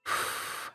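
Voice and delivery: soft blown-out exhale; breathy sigh. Real, not acted. Reader turning to the next card, soft sigh. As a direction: let out a quiet puff of air.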